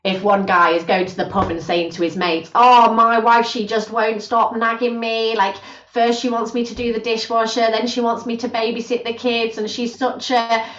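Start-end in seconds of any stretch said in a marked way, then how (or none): 2.5-10.6 weary moan about the wife, pitched a little up; grumbling husband. Acted. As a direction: grumble to mates at the pub, dragging the complaint out. Husband grumbling to mates, voiced.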